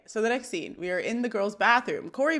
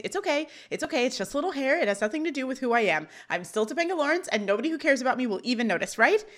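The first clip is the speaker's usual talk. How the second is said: mildly panicked, higher-pitched self-reassurance; 4 semitones higher, faster than usual. Acted. Girl giving herself a pep talk about her hair, mildly panicked. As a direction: read it a little high, trying to convince yourself.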